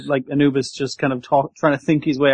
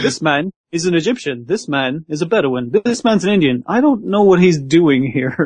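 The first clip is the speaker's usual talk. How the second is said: educational narrator. Acted. Presenter explaining the peoples of Egypt, mock-educational. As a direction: present each person like a lesson, ending in bafflement. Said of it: "a weird sort of educational".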